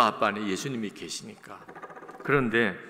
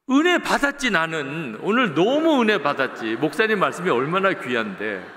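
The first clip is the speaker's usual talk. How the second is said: gushing wife; 3 semitones higher, 5 dB louder than usual. Retold or imitated. Wife answers husband, mock enthusiastic.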